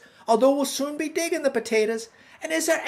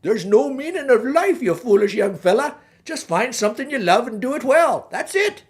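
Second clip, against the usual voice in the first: a louder, gruff-sounding troll hands down his verdict; troll tells the boy life's meaning, louder; troll wisdom; 5 dB louder than usual. Acted. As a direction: boom the answer like an old bridge troll. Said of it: "he looks at me and says".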